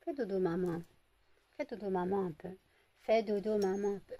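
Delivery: hushed and tender, coaxing to sleep; soft lullaby voice. Real, not acted. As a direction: gently lull a pet to sleep. Lulling the dog to sleep.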